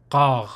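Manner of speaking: "kar" rasped from the throat like Hebrew; Hebrew guttural ka. Shown as a demonstration. Teacher likening the consonant to Hebrew "kar". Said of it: "the Hebrew guttural sound for ka".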